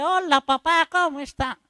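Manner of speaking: high, bright, naive hello to the Father; mock casual greeting. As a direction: sing it out carelessly, as if nothing happened. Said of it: "usted piensa llegar allí y decirle".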